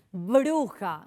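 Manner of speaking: "Bruja" mit deutlichem B aus beiden Lippen; bilabial B. Shown as a demonstration. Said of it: "el sonido".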